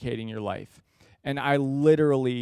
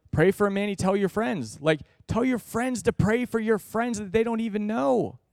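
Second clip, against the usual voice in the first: emphatic urging; 7 semitones higher than usual. Retold or imitated. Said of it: "repeating friend's request emphatically".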